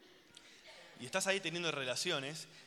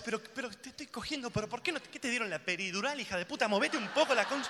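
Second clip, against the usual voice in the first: frustrated man; 7 semitones higher than usual. Retold or imitated. Y vos decís.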